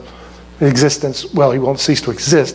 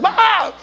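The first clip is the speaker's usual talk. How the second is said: high mock yelp of fright; startled gasp. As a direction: imitate a frightened girl's cry. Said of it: "she's like".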